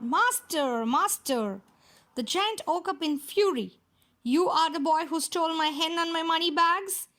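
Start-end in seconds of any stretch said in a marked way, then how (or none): 0.0-1.6 harp calling out. Acted. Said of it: "the harp called out". 4.2-7.1 giant bellowing. Acted. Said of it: "he bellowed".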